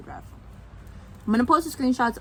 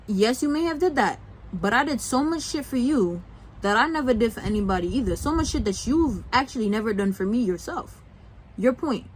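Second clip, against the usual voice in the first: raised, pointed comeback; indignant rebuttal, voice up; heated retort; 4 semitones higher than usual. Real, not acted. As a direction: tell her off straight. Addressing her, heated retort.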